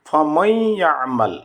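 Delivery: ফামাই held nasally, gliding into ইয়ামাল; merged noon with ghunnah. Shown as a demonstration. Teacher reciting the example, merged with ghunnah. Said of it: "উচ্চারণ করতে হবে".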